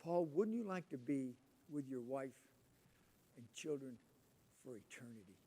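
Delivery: mimicking missionary pitch. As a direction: lightly imitate a missionary's earnest question. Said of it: "they always start the talks like this".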